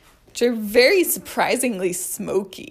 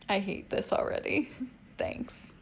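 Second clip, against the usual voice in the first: whispering; 10 dB quieter than usual. Real, not acted. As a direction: grumble it under your breath. Whispered aside.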